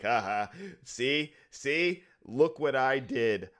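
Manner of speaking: a hint of a smug, cackling hunter, slowed; lightly voiced deranged gloating; gloating maniac. Hunter gloating to the player about his kill, mildly gleeful. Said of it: "he's laughing about it".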